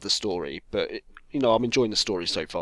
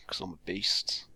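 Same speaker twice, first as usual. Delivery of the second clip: whispered brag; 3 semitones lower, 8 dB quieter than usual. Real, not acted. Mock brag aside.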